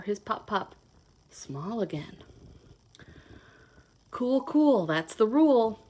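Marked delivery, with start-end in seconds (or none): 4.1-5.8 lively storybook read-aloud; reading to children. Acted. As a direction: read it like a picture book to little kids. Reads picture book to children.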